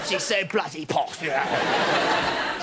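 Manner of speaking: mock posh accent, strained for air; posh accent that trails into breath; breathless posh accent. Sending up mate's posh girlfriend, breathless posh accent. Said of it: "Sounds like she can't breathe in".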